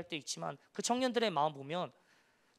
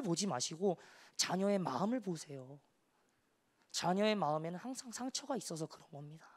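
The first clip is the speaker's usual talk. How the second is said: comforting parents. Retold or imitated. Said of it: "부모님을 위로하면서".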